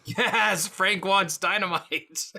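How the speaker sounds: high, gleeful exclamation; excited agreement. Real, not acted. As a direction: jump on it with delight. Player cheers the GM invoking aspect.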